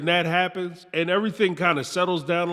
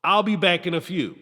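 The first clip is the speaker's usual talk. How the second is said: imitating Jimena. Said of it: "She said".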